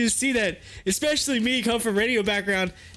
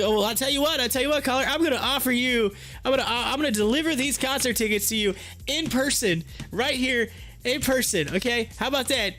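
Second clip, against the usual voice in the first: higher, smooth slick host voice; smooth radio host; 4 semitones higher than usual. Retold or imitated. Host offering to deliver tickets in person, slick. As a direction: lay on the charm like a DJ. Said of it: "he's like".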